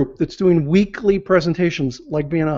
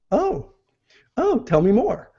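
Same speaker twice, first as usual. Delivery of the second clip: high, rising, eager "Oh, tell me more"; interested oh tell me more; 5 semitones higher, slower than usual. Shown as a demonstration. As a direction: sound hooked and curious, "oh" lifting up. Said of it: "same words, but different inflection with the voice".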